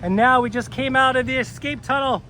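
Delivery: thrilled to get out; excited. Real, not acted. Bursts out of escape tunnel.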